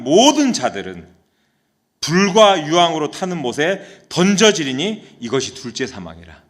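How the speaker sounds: solemn, emphatic public Bible reading; scripture reading. Real, not acted. Preacher reads Revelation's warning to the congregation, emphatic scripture reading. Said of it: "제가 한번 읽어줄게요".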